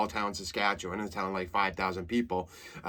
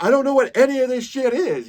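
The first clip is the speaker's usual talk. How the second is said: meltdown; 13 semitones higher, 8 dB louder than usual. Retold or imitated. Tim Robinson sketch meltdown.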